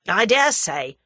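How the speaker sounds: angry. Acted. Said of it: "said Tommy angrily".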